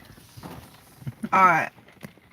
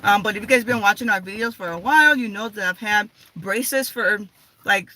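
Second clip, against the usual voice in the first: wearing a retainer. Real, not acted. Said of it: "so I'm talking really funny".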